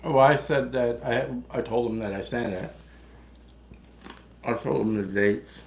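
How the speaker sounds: talking with mouth full; words through a mouthful of food. Real, not acted. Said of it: "Talk with your mouth full".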